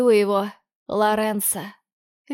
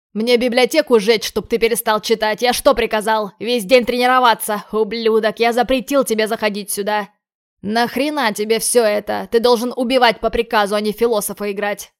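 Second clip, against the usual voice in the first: loud furious yelling; angry shouting; 5 dB louder than usual. Acted. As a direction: scream at him in rage. Lorenzo strangling, yelling.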